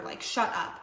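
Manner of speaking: breathy excited whisper; hushed thrill; whispered shut up. Real, not acted. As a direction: whisper it in disbelief.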